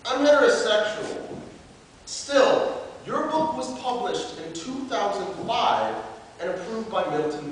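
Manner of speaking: declaimed slam-poet letter; open letter performance. Acted. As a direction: address the makers formally, as a performed piece.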